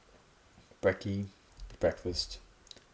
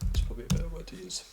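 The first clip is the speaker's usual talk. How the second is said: whispered aside; 11 semitones higher, 3 dB louder, much faster than usual. Real, not acted. Muttered aside while reading list.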